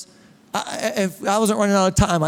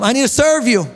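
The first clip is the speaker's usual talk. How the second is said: louder repeat; 3 semitones higher, 3 dB louder than usual. Shown as a demonstration. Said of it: "Tell him".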